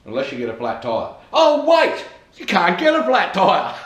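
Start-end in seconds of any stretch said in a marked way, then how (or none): 1.3-3.7 high, loud fake surprise; mock realisation. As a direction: play up a sudden, joking realisation. Mock realisation, running joke.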